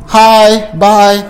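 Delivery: "Hi, bye." said as two bright separate greetings; clear, lifted hi, then bye; greeting demo. Shown as a demonstration. Teacher demonstrating hi and bye to the class, bright. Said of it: "hi and bye, we, same motion".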